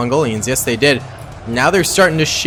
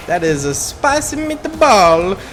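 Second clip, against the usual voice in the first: slow, higher put-on catchphrase voice; spicy meatball voice; 6 semitones higher, 3 dB louder, slower than usual. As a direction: ham up the catchphrase, slowly. Catchphrase after epic last stand.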